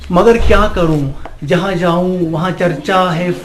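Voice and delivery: animated Urdu nazm recitation; poem recitation. Acted. Amateur poet to an appreciative gathering, reciting his nazm. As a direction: recite verse with measured line breaks.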